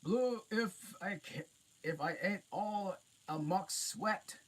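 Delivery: high loud giant, out of breath. A narrator's reading. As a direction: puff it out like a winded giant. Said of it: "said the giant, puffing".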